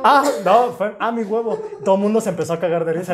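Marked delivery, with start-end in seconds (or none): 0.0-0.7 high, loud mock yelp; reenacted outburst. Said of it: "en voz alta dije". 1.0-1.6 high-pitched mock cry of alarm; reenacted outburst. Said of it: "en voz alta dije".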